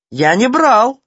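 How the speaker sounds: high, loud squealing denial; shrieking. A narrator's reading. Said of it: "завизжал Ситечкин".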